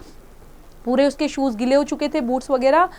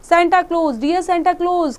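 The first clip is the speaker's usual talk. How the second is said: mild sobbing cry; 5 semitones higher, much slower than usual. Acted. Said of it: "cried Jimmy Scarecrow with a great sob".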